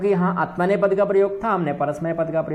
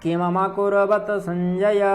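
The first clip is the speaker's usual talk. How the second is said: measured chant of the half line; slow verse recitation; much slower than usual. Shown as a demonstration. Teacher chanting the verse line. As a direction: recite slowly, each word full. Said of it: "recites verse".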